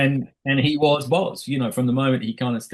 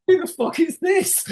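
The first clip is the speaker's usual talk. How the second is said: bewildered; 3 dB louder than usual. Retold or imitated. Crew thrown by his real voice.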